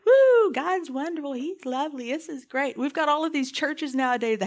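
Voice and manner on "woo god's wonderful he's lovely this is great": mock cheerful gush, loud start. Preacher mocking happy-clappy churches, mock gushing. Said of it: "Everybody loves all the, like".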